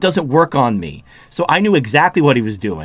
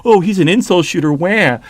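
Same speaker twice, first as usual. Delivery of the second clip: mock-panicked whining, higher at the start; mock victim; 3 semitones higher than usual. Streamer mimics critic claiming he is being threatened, mock victim. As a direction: imitate someone playing the frightened victim. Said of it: "he immediately went victim mode".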